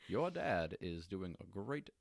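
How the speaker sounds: lightly voiced Obama posing as Washington, slowing at the end; bad Obama impression. Obama pretending to be Washington for the girls, in a mock voice. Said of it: "It's a really bad impre".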